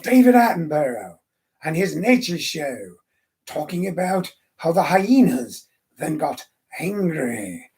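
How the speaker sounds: slow, measured nature documentary narration; David Attenborough. Retold or imitated. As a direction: mimic a TV naturalist, pausing and drawing out each phrase. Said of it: "see his drop dead funny impersonation of".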